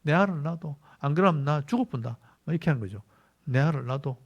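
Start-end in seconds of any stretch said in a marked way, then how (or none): 0.0-2.2 a light Gyeongsang dialect demand, first line punched out; mock Rachel nagging in a light Gyeongsang accent; 경상도 사투리로 가볍게 흉내 낸 조르는 말투. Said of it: "경상도 말로". 3.4-4.2 a light Gyeongsang dialect demand, first line punched out; mock Rachel nagging in a light Gyeongsang accent; 경상도 사투리로 가볍게 흉내 낸 조르는 말투. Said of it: "경상도 말로".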